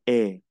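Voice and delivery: E with the mouth wider open and longer; open, drawn-out French E. Shown as a demonstration. Teacher shows the open e sound to students. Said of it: "la boca más abierta de lo normal".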